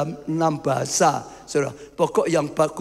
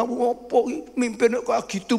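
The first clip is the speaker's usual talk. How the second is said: mock scornful jab; 7 semitones higher than usual. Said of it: "misal gitu".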